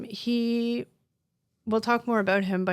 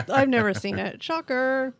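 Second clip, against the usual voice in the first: talking through hiccups; 2 semitones higher than usual. Real, not acted. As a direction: speak with the hiccups. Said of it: "I have the hiccups".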